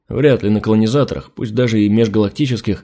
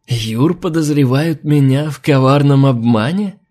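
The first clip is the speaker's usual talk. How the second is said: chuckling; 3 semitones higher, slower than usual. Acted. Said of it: "хохотнул ящер".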